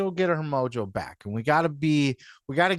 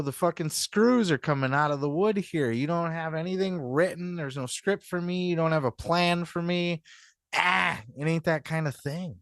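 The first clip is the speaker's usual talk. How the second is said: imitating a whiny WWE star, pitched higher; lightly voiced pampered wrestler complaining, higher; The Miz; 4 semitones higher than usual. Mocking a WWE star arriving at AEW, higher whiny voice. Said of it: "like a Miz is gonna walk into A E W and fucking".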